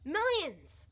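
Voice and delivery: high, loud burst; exultant exclamation. Acted. Husband boasting of the money found, exultant exclamation. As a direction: blurt it out, swooping down from high. Exaggerates the find.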